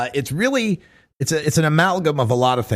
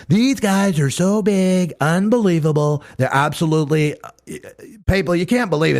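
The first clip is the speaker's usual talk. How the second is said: Trump impression; 2 semitones higher than usual. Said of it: "my Trump is my Trevor Noah Trump".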